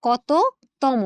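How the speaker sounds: কততম split slowly, "koto ... tomo"; slow, separated কততম with clear o endings; demonstrated pronunciation. Shown as a demonstration. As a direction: pause inside কততম, each half ending in o. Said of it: "আমাদের উচ্চারণটা কিন্তু এরকম".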